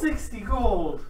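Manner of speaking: slow stunned exclamation; shocked. Real, not acted. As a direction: drag out the shock. Shocked at the cost.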